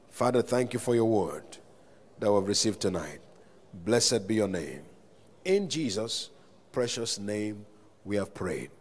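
low-pitched, measured prayer voice; leading prayer. Real, not acted. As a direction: pray it steadily on the congregation's behalf. Leads a closing prayer.

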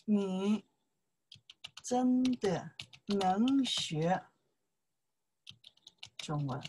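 slow, drawn-out 真的能学 中文 with each syllable spaced; slow model line. Shown as a demonstration. Teacher models the corrected sentence for the student, slowly. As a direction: lay out 真的能学 中文 slowly, word by word. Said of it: "Chinese more like say that one".

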